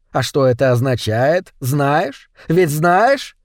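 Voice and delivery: злобный хозяин, с угрозой, местами медленно; пугай слугу посохом; угрожающий хозяин. Acted. (хозяин запугивает Шалопуту наказанием)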